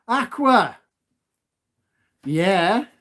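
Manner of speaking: breathless, puffing between words; out of breath. Real, not acted. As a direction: speak while catching breath. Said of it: "Sorry, I'm getting out of breath here".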